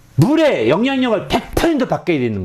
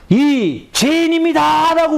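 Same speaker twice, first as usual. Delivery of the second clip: high, strained sinner's cry; weeping confession; 13 semitones higher, slower than usual. Acted. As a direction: cry out your guilt, near tears. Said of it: "울면서 막".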